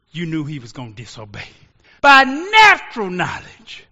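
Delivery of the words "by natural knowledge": slow, higher, much louder shout; slow preaching shout. Real, not acted. Preacher repeating his point, a slow loud shout. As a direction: stretch and hammer each word.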